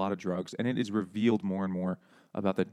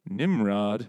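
a hint of a scoffing father, louder; mock dad; 6 dB louder, slower than usual. Son imitating dad sneering at his music, a bit louder. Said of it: "He's like".

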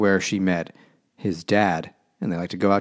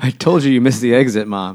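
mock kid complaint; 4 semitones higher, 5 dB louder than usual. Voicing kid scolding mom.

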